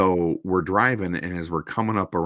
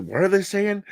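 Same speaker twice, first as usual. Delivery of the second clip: high, puzzled squeak; high, confused; confused buddy; 14 semitones higher, 3 dB louder than usual. Retold or imitated. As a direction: play a baffled friend in the back seat. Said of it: "my buddy's like".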